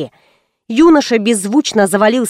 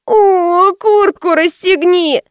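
put-on higher, slow child's whine; whining child; 8 semitones higher, much slower than usual. Hot child begs mother, slow whine. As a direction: stretch it out, pleading and sulky.

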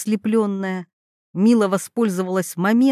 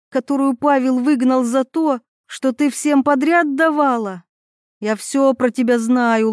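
angry accusation; 3 semitones higher than usual. Acted. Jealous rival confronts Mila.

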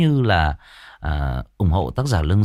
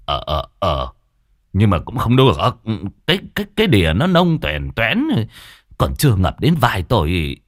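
lightly voiced old man arguing; a hint of an old man scoffing; skeptical old man. Old Cẩm argues the pond is too shallow, lightly voiced.

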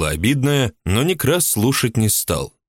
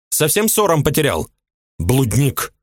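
a much higher woman's voice, resentful and indignant; jealous housewife; 7 semitones higher than usual. A narrator's reading. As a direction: play the jealous mistress complaining. Ulyba scolding.

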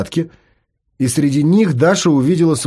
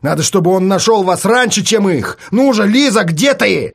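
higher, urgent pushing; urgent calling; 5 semitones higher than usual. Acted. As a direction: keep pushing her, voice up high. Artyom urging, calling out. (настойчиво, повышенным голосом)

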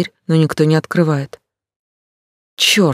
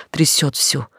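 ordinary delivery, nothing marked

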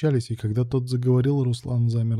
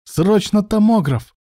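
high, loud, drawn-out urgent shout; full-throated yell; 11 semitones higher, 6 dB louder, slower than usual. A narrator's reading. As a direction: yell for emergency help down the corridor. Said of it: "заорал во всё горло". (крик во всё горло)

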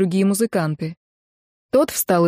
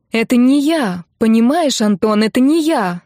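desperate high shout, louder; 4 semitones higher, 4 dB louder than usual. Acted. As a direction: cry out your innocence, voice up high. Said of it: "закричала она".

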